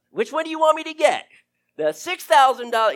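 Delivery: impatient loud plea to heaven; eager pleading. Retold or imitated. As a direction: beg God to say the pricier one. Prayer breaks into demanding plea.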